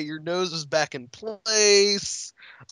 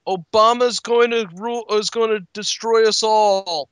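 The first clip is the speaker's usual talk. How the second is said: hammed-up conspiracy rant, louder; mock paranoid rant; 5 semitones higher, 3 dB louder than usual. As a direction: rant like a paranoid pundit, raised voice.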